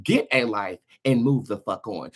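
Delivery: normal talking voice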